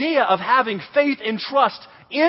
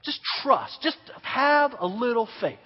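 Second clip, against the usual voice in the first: soft, hushed, soothing counselor; compassionate reassurance; 7 dB quieter than usual. Retold or imitated. Counselor walking beside a scared camper, hushed reassurance. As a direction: gently coax a frightened kid in a near-whisper. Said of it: "some kind of compassionate".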